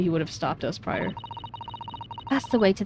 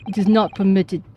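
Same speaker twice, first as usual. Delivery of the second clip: put-on stiff Russian accent, stressing not; weak Russian accent, stern sailor. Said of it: "I'm so bad at this Russian accent".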